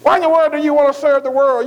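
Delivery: a mocking friend scoffing at going back to church; mocking worldly friends. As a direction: jeer at the believer like a worldly crowd. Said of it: "he tried to get them to say".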